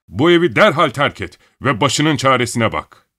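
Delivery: stamp and shout. Acted. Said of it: "ayaklarını yere vurarak bağırdı".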